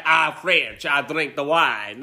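slow, lightly hammed-up French accent; mock a Frenchman's English, drawing it out; exaggerated French accent. Co-host mocking the film's French drinker, exaggerated French accent. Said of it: "trying to make it exaggerated French".

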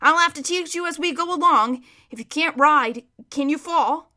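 emphatic, exasperated horse; mildly angry horse. A narrator's reading. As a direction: spell it out to the boy. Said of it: "more horsey in accent when they are angry".

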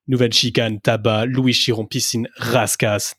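Monaco corners said the French way; French accent, a touch of showing off; French pronunciation. Shown as a demonstration. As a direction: roll out the corner names in native French. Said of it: "your French accent".

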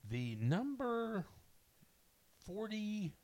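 slow, high announcer reveal; dramatic countdown reveal. Acted. Announcing the next movie in the countdown, slow and dramatic. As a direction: draw out the number like a show host. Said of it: "countdown host reveals next movie".

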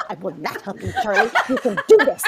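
laughing through a firm no; half-giggling stern mom; stern words broken by laughter; laughing refusal. Retold or imitated. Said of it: "And I'm like".

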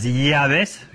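"llaves" with an attempted palatal ly sound; attempted elle sound. Shown as a demonstration. Madrid speaker attempting a sound he can't manage, careful elle. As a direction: try "llaves" as lyaves, not quite managing. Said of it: "lo estoy pronunciando mal porque no lo consigo".

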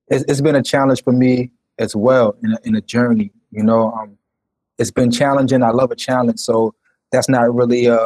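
bitcrushed, lagging connection audio; choppy robotic call audio; robotic glitchy audio. Real, not acted. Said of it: "your audio is, er, er, robotic".

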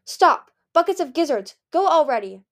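loud, high exasperated outburst; frustrated yelling. A narrator's reading. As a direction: yell at a fire that won't die. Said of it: "she yelled".

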